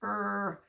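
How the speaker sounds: Er said as a long drawn r sound; a child showing the r sound in Er. Shown as a demonstration. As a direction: hold the r in Er. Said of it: "R sounds like this".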